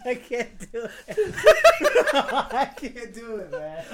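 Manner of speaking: can't stop laughing; cracking up mid-line. Real, not acted. Laughing through helium attempt.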